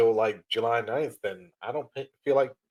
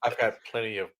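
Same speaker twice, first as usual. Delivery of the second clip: Irish accent impression; 4 dB louder than usual. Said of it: "Do you now?".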